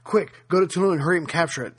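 playful, teasing quote that rises on Quick; teasing Churchill. Retold or imitated. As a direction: urge him on with a wink. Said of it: "with a twinkle in his eye".

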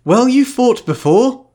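high, slow, otherworldly witch voice; Serafina's voice. Acted. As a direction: speak as the calm, far-off witch queen. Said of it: "you've nailed it perfectly".

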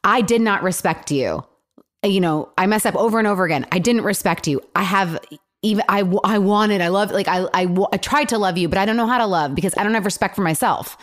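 sincere apology demo. Shown as a demonstration. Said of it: "this is what you should have said".

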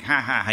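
mock "ha, ha, ha" laugh; spoken imitation of a laugh; imitated laugh. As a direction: act out someone laughing in a retelling. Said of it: "Groucho laughs like".

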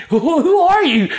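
loud, high, slow incredulous cry; mock everybody's outrage, drawing it out; outraged challenge. Church people outraged at his suggestion.

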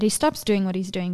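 normal talking voice

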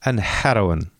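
badly imitated Pakistani accent, tapped r in heroin; half-hearted Pakistani accent; attempted Pakistani accent. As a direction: try a light Pakistani accent and miss. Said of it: "that accent is so amazing".

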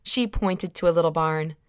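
ordinary delivery, nothing marked

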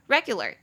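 "regular" with stress on the opening "re"; first-syllable stress. Shown as a demonstration. Teacher demonstrating word stress, "regular" stressed on "re". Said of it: "重音节在第一音节".

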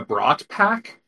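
Brat Pack with Brat as "braht", like bratwurst; joke pronunciation. Shown as a demonstration. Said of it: "I think you're pronouncing it wrong".

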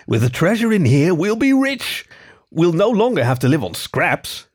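high, eager fox voice; excited fennec. Acted. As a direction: pitch it up with greedy excitement. Fennec dreams of treasure.

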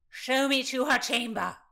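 put-on high, loud drunken demand; insistent shout. A narrator's reading. Rutland refused by Constance, shouting his demand. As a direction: shout the order, out of patience.

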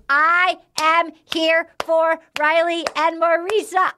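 high, emphatic fan declaration; excited gushing. Real, not acted. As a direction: declare it high, spacing out the words. Host gushing over the couple.

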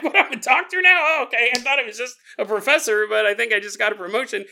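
squeaky self-pleased nerd. Acted. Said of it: "the nerd voice".

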